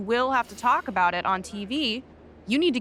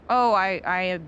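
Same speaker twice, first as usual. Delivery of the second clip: disappointed parent; 2 semitones lower than usual. Shown as a demonstration. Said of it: "play the disappointed parent card".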